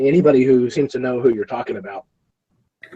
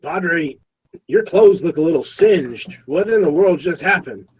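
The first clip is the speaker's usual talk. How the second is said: guard voice; 5 semitones higher, slower than usual. Acted. Guard questions the priest.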